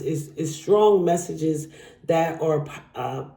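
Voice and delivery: halting, stumbling over words; stuttering. Real, not acted. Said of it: "And I'm stuttering".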